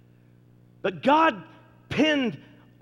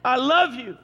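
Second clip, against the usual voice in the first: tender; 5 semitones higher, 4 dB louder, slower than usual. Retold or imitated. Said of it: "This is God saying to the whole world".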